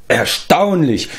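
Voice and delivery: slow, drawn-out astonishment; amazed exclamation. A narrator's reading. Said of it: "rief Prinz Run". (erstaunt ausrufend)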